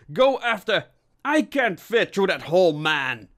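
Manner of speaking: high, loud exasperated order; shouted. A narrator's reading. Cramped inspector to colleague, shouting an order. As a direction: send your partner off in a hurry. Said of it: "he shouted".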